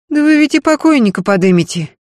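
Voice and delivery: grumbling. A narrator's reading. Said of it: "проворчала Дунька".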